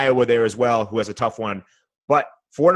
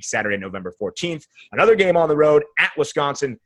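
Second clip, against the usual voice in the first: auctioneer. Shown as a demonstration. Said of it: "I'm gonna do it quickly like an auctioneer".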